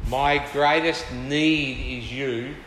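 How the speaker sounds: slow, earnest plea; heartfelt cry. Acted. Preacher voicing the believer's cry to God, heartfelt. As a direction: draw out each word in earnest need. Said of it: "along with that cry".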